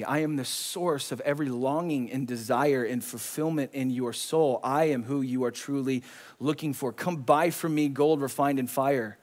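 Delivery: low, soft, earnest appeal; tender divine invitation. Acted. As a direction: speak softly as Jesus inviting someone close. Voicing Jesus's tender invitation.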